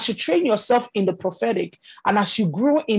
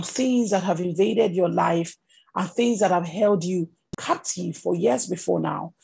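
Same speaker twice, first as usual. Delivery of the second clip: gentle prophecy; 2 semitones lower than usual. Acted. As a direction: share it tenderly, in a hushed tone. Models delivering prophecy gently to someone.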